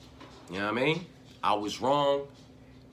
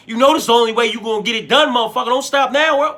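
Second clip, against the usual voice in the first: imitated sparring hype; 7 semitones higher, 7 dB louder, faster than usual. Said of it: "I'd be all in his motherfucking ear telling him".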